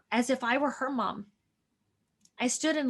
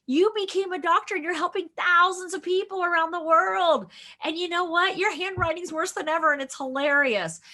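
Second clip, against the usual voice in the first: put-on soothing child self; 4 semitones higher than usual. Reassuring first grade self.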